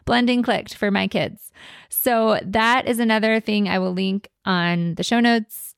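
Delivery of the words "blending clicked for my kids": excited parent. Retold or imitated. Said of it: "they're like".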